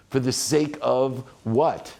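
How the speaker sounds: slow, deliberate repeat of the question; slow emphatic question. Shown as a demonstration. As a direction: draw out For the sake of what? slowly, weight on what. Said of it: "that's what got me there".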